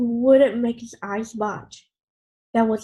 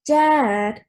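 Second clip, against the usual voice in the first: scolding; 2 semitones higher, 7 dB louder than usual. Acted. Mom scolding Grandpa.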